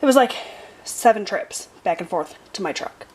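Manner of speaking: winded, short breaths between words; catching breath while talking. Real, not acted. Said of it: "Sorry, I'm out of breath".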